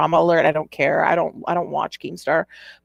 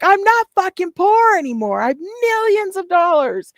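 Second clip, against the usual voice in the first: high-pitched yelling; 12 semitones higher than usual. Retold or imitated. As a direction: shriek the rant like a drunk streamer. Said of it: "that high-pitched yelling".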